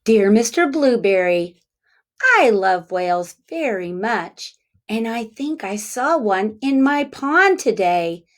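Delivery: clear, steady read-aloud voice; storybook reading for kids; reading to children. Acted. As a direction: read the letter to young listeners. Reads letter aloud.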